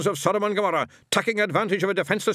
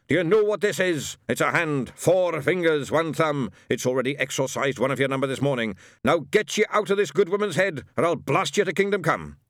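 louder, higher Scottish commands; ordering; 7 semitones higher, 4 dB louder than usual. A narrator's reading. Shadwell exorcising Tracy's head, loud Scottish orders. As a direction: thunder it like an exorcist. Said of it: "ordered Shadwell".

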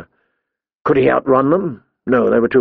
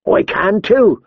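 insistent; 7 semitones higher, slower than usual. A narrator's reading. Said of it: "Gren insisted".

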